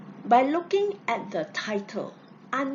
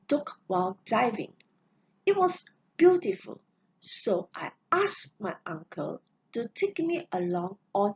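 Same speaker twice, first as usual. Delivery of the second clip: reading a passage aloud. Shown as a demonstration. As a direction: clear classroom read-aloud of a student text. Teacher reads passage aloud.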